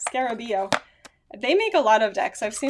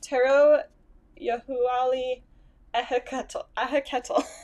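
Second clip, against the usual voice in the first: terrible Spanish accent, pitched higher; 3 semitones higher than usual. Reading out a tarot deck's name: terrible spanish accent. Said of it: "my terrible Spanish accent".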